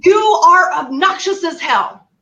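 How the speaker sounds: high-pitched, exasperated mock telling-off; retold yelling. Daughter losing patience with mom, imitated yelling. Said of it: "I started yelling at my mom".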